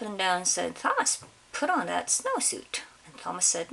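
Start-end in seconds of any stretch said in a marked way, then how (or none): 0.8-2.8 higher, insistent command; mother's angry order. Acted. Mother demanding Thomas put the snowsuit on, high and insistent.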